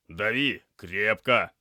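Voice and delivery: loud, slow, emphatic order; firm command. Acted. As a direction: drive each word home to the assistant. Medic orders assistant to press wound.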